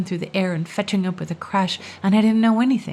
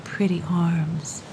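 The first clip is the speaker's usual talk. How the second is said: sighed; 3 semitones lower, slower than usual. Acted. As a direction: sigh it out sadly. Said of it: "she sighed".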